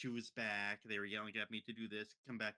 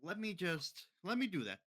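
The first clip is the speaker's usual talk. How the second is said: lightly voiced eager boy, pitched up; energetic young boy; 5 semitones higher than usual. Energetic boy asking mom for the camera, lightly imitated. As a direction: imitate an excited kid butting in. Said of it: "me being energetic young boy, being like".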